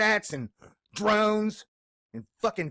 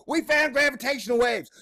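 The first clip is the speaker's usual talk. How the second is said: mocking quote; 6 semitones higher than usual. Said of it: "jerk off yourself about".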